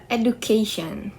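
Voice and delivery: "education" with the stress on "ca"; stressed syllable before -tion. Shown as a demonstration. Student explaining stress-attracting suffixes, stress on the "ca" of "education". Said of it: "causes the stress to fall on the syllable before".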